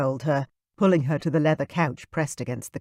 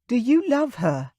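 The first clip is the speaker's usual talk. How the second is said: put-on higher, pleading young woman's voice; Kayla asking; 9 semitones higher than usual. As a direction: ask it anxiously in a lifted voice. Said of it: "I repeated".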